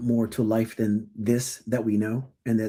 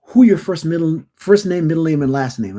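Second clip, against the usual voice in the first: son's blunt demand; 3 semitones higher, 6 dB louder than usual. Retold or imitated. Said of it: "he used to go".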